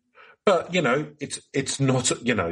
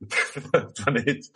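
laughing; 3 semitones higher, slower than usual. Real, not acted. Still laughing, slower.

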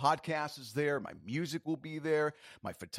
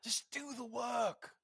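high-pitched exasperated British scolding; British accent; 7 semitones higher than usual. Acted. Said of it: "in your best British accent".

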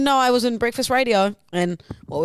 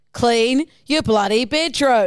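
slow, louder scolding mother; nagging mum; 5 dB louder, slower than usual. Acted. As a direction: tell the kid off, slowly. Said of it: "the type of mother".

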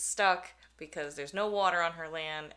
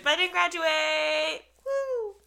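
higher, louder ironic celebration; mock cheer; 10 semitones higher, 6 dB louder, slower than usual. Real, not acted. Host joking about not graduating, ironic cheer. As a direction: cheer it with dark irony.

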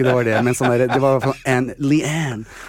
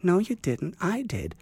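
mock sister retort; 7 semitones higher, 7 dB quieter, slower than usual. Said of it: "sier hun stakkars til søsteren".

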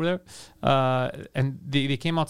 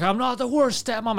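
put-on drunk woman voice; 8 semitones higher than usual. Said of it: "It's like".

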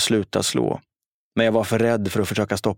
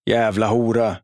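argt skrik. A narrator's reading. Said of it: "skrek Jari".

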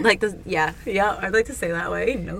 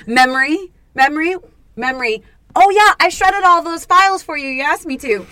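brain character; 6 semitones higher, 6 dB louder than usual. Pretend. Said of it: "it's like".

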